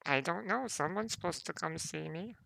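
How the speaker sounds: a hint of an old woman, unsure; lightly voiced old dwarf; frail old voice.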